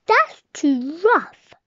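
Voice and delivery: slow, loud big bear; daddy bear voice. Acted. Daddy bear chair line.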